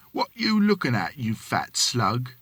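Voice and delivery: retold taunt. The speaker retelling how he taunted the watchman, mock jeer. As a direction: sneer at him like a street lad. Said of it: "And I up and says".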